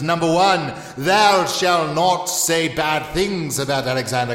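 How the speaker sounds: slow, grandiose proclamation; self-important leader. Acted. Leader giving citizens his five commandments, pompous announcement. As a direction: proclaim it with drawn-out, mock-solemn authority.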